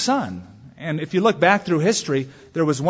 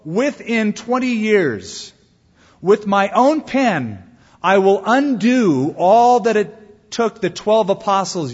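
slow, loud, higher proud boast; arrogant boast; 5 semitones higher, 5 dB louder, slower than usual. Acted. Preacher quoting Voltaire's boast, slow and loud. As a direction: lord it over the apostles, slowly.

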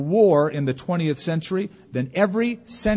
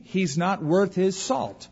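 slow saying; 4 semitones higher, slower than usual. Shown as a demonstration. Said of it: "where we got the saying".

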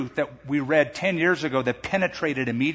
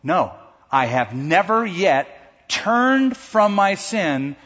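earnest realization; 4 semitones higher, 4 dB louder, much slower than usual. Retold or imitated. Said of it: "and she said".

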